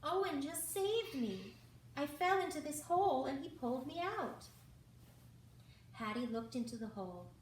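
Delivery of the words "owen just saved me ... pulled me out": high, loud eager burst. A narrator's reading. Mouse bursting out to her friend about the rescue, high and loud. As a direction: blurt it all out with excitement. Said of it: "Sophie burst out".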